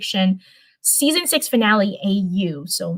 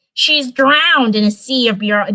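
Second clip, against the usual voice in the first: a touch louder, lightly voiced Stormy; retry the line as Stormy, a bit louder; better Stormy voice; 3 semitones higher, 4 dB louder than usual. Streamer redoing Stormy's murmur, a touch louder. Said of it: "yeah, that's more it".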